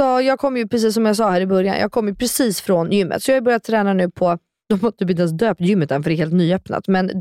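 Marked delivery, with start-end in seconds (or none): none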